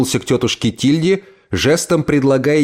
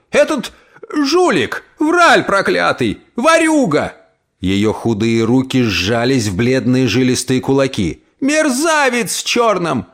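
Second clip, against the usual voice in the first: furious; 13 semitones higher than usual. Acted. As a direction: rant at the thief. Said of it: "Внезапно вскипев".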